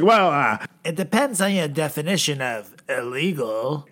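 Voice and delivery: a hint of a slippery lawyer; sly evasive Giuliani. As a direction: dodge the question coyly. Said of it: "It's like".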